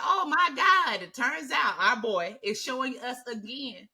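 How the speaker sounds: hammed-up fan excitement; mock fan excitement. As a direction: gush like a thrilled fan. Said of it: "everybody was like".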